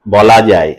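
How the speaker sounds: "বলা যায়" set apart as its own unit, falling; second metrical phrase. Shown as a demonstration. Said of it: "আর একটা পর্ব।".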